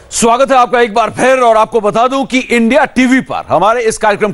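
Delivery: host welcoming viewers back and introducing Sourav Ganguly, anchor style; TV anchor intro. Acted. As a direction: sell the segment to viewers after the break. Anchor opens segment after break.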